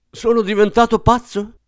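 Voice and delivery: very high-pitched outraged question; thundering anger. A narrator's reading. Father facing his aged newborn, thundering. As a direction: burst out, terror turned to rage. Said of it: "tuonò mister Button".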